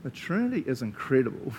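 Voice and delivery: awestruck. Acted. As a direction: act out being amazed, stretching the opening words. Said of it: "I wanted us to go".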